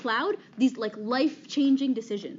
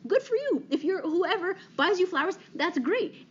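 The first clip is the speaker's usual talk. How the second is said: mock sarcastic; 6 semitones higher than usual. Real, not acted. Teasing girls who love flowers.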